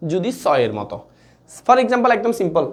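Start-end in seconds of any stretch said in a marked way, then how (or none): 0.1-1.0 স said as a sharp "so"; dental "s" sound. Shown as a demonstration. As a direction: pronounce স with English "s", not "sh". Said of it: "দন্ত স কখন হবে". (স-কে দন্ত্য "স" (s) ধ্বনিতে উচ্চারণ)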